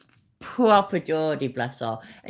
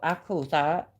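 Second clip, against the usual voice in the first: hushed excited whisper; delighted little whisper. Real, not acted. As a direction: breathe it in awe. Showing off decanter on stream.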